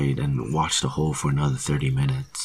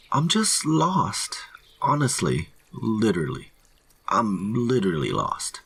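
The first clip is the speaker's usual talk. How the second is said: high voice, easing down at the end; anxious pleading; 7 semitones higher than usual. A narrator's reading. Lost hiker explaining himself to rangers, high anxious plea. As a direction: plead to be believed.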